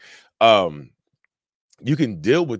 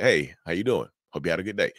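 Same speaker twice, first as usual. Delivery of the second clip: easy, inviting greeting; warmer, welcoming; 2 semitones lower than usual. Shown as a demonstration. Yellow-rocker greeting a narcissist, a bit warmer. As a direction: greet them with a little more friendliness. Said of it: "that's warmer, that's more welcoming".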